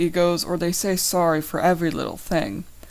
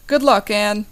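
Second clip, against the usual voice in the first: cheering; 3 semitones higher, 6 dB louder than usual. Acted. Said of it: "I cheer out to her".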